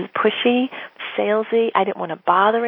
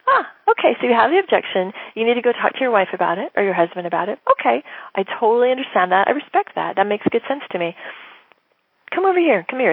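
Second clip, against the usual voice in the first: welcoming lean-in; 2 semitones higher than usual. Shown as a demonstration. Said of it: "as opposed to".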